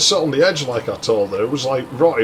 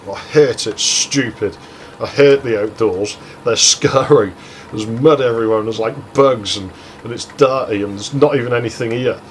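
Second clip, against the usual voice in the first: retold whining. Girl whining to her companion about hating the outdoors, mock whine. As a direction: imitate someone whining through a list of gripes. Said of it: "she just kept whining at me".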